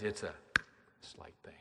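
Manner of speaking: breathy whisper, almost unheard; whispered refrain. Acted. Preacher hushes the congregation, whispering. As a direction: let the words fall to a hush.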